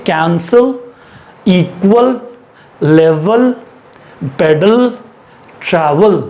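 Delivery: कैंसिल, इक्वल, लेवल, पेडल, ट्रैवल each said alone with a pause after; pronunciation drill. Shown as a demonstration. Teacher asking learners to pronounce, कैंसिल to ट्रैवल as separate drill words. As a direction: model कैंसिल, इक्वल, लेवल, पेडल, ट्रैवल one by one, first syllable leading. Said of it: "आप pronounce करिए".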